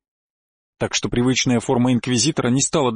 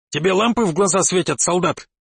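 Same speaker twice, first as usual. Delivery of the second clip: barking; 4 semitones higher than usual. Acted. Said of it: "рявкнул я".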